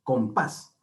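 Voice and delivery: "Compás" con fuerza en "pás"; acento en la última sílaba. Shown as a demonstration. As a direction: carga la voz en el final de "Compás". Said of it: "la sílaba tónica en la última sílaba". ("Compás", marcando la última sílaba)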